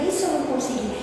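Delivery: soft, humble worry; humble question. Retold or imitated. Kardec quietly asks the spirits what if he fails. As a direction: ask it quietly, unsure. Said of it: "então ele pergunta".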